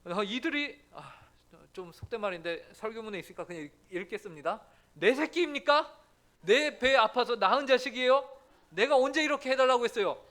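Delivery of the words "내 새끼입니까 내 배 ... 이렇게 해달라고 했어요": louder and higher, exasperated protest; blunt complaint. Acted. Pastor voices Moses protesting to God, loud and exasperated. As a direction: throw the question back at God, fed up.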